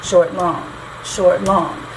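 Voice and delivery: SHORT quick and light, LONG held and weighted; iambic rhythm. Shown as a demonstration. Teacher showing a student the foot in this line, iambic rhythm. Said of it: "the kind of foot".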